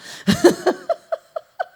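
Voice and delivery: a squealing laugh at her own joke; a sudden high giggle. Real, not acted. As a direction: burst of high-pitched laughter.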